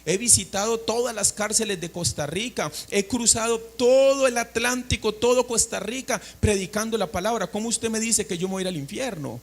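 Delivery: imitating his own old boastful protest; mock-indignant list of achievements, pitch lifting as it builds; arrogant boasting. Preacher re-enacts arguing against the gospel years ago, arrogant boasting. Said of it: "con una arrogancia en mi corazón".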